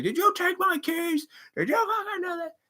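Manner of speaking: high-pitched furious accusation; accusing yell. Pretend. Mock furious accusation at whoever took the keys. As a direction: lash out at everyone, voice shooting way up. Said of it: "you start acting out like".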